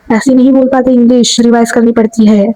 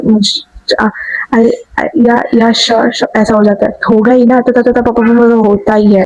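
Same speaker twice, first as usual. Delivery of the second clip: hesitant stammering. Shown as a demonstration. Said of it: "इतना hesitate नहीं करते हो".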